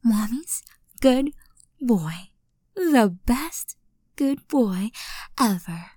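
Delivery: whispered praise. Acted. Praising him softly.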